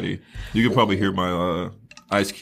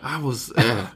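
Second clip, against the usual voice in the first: Elrond; 4 semitones higher, slower than usual. Retold or imitated. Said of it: "fucking Elrond".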